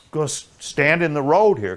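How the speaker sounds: calling his buddy to stand in the road; urgent call out. Retold or imitated. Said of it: "and I'm going".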